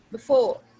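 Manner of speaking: बिफोर with reduced first vowel; बिफोर, quick buh and loud second syllable; quick schwa. Shown as a demonstration. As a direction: say बिफोर as buh-FORE, punching FORE. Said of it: "मैंने ना बी कहा है".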